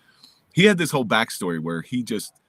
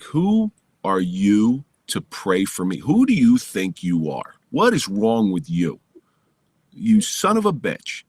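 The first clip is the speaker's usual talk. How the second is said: slow, louder mock fury at a friend; retold angry rant; 5 dB louder, slower than usual. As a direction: spit out the outrage slowly, each question a jab. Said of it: "I get so mad at this guy".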